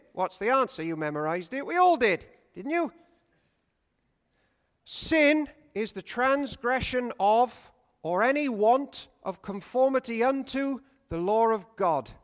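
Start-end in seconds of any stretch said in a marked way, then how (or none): 4.9-12.1 slow, solemn chanted recitation of the catechism; rote catechism recital. Shown as a demonstration. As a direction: recite it like a child who learned it by heart. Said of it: "Why don't we speak like that anymore?".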